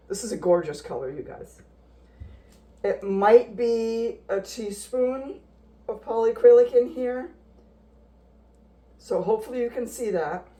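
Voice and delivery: muffled through a face mask; talking behind a face mask. Real, not acted. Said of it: "I apologize if my voice is muffled".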